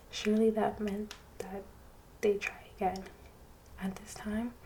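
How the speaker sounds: hushed ASMR read-aloud. A narrator's reading. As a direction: read gently as if at bedtime. Soft-spoken ASMR story reading.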